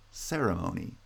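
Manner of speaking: ceremony as CE-re-MO-ny; weight CE most and MO second in ceremony; first and third stressed. Shown as a demonstration. Teacher showing first and third syllables, ceremony stressed on CE and MO. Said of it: "is stressed on the first".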